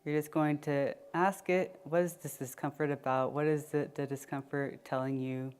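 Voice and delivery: unhurried check-in with body and breath; guided meditation. Acted. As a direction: ease them inward, leaving long pauses.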